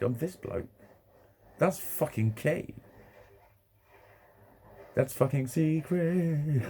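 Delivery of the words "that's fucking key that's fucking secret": slow, high, drawn-out confiding tone; slow conspiratorial. Real, not acted. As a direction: let each word land slowly like a secret. Confessing a secret, slowed.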